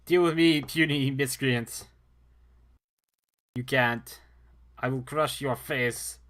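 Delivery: loud, slow barbarian taunt. Pretend. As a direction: bellow threats like a brute warrior.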